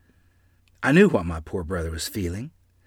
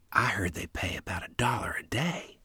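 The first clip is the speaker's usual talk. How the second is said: soft, breathy awe at the sum; a girl awed by a dollar a day; almost whispered; 9 dB quieter than usual. Acted. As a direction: hush it as if it's a fortune. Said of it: "Lottie almost whispered".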